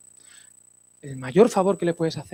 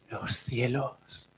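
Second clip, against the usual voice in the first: very slow; 6 semitones lower, 14 dB quieter, much slower than usual. Acted. Alarga muy despacio.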